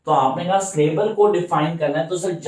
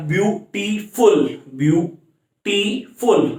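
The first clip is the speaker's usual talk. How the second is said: "ब्यूटीफुल" slowly split as byu, tee, ful; teacher sounding out "ब्यूटीफुल" in three beats; three-syllable breakdown; much slower than usual. Shown as a demonstration. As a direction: pause between each syllable of "ब्यूटीफुल". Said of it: "तीन syllable आ गए".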